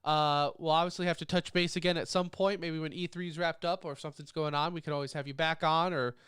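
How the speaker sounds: stuffy nasal voice from a cold. Real, not acted. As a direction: talk through a blocked nose. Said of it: "this nasally voice stays there forever".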